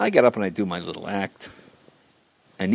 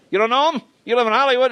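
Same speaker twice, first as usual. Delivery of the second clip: higher, louder disbelieving question; mock incredulous mobster; 13 semitones higher, 4 dB louder, faster than usual. Mob guy grilling the young comic on the golf course, mock incredulous. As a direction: act shocked that he doesn't know Stallone.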